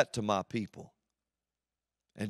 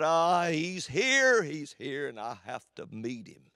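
dreading demon. Acted. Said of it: "turned their back and shook and said".

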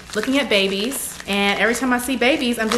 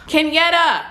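high, louder sigh into the name; swooning call; 8 semitones higher, 6 dB louder than usual. Real, not acted. YouTuber calling out the fan who sent the gift, swooning.

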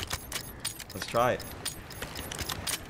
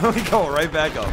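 louder, laughing repeat of going; 3 semitones higher, 4 dB louder than usual. Real, not acted.

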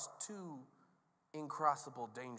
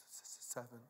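very soft, low reply; timid little admission; meek disciples; 4 semitones lower, 13 dB quieter than usual. Acted. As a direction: answer sheepishly, barely audible.

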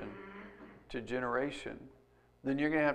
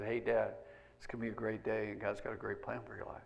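emotional quote; 6 semitones lower, 12 dB quieter than usual. Retold or imitated. Child's text read aloud.

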